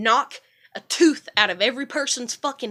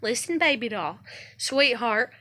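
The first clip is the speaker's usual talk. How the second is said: sweet-talking. Retold or imitated. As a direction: coo the pet names gently. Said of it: "I talk nice and I talk calm".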